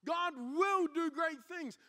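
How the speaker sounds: slow, loud proclamation as Joshua; Joshua proclaiming. Acted. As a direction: speak as Joshua to his people. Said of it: "Joshua looks at the Israelites and goes".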